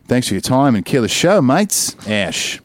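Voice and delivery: put-on Australian accent; hammed-up Australian accent. Shown as a demonstration. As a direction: read the sign-off like an Aussie. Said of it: "end it in an Australian accent".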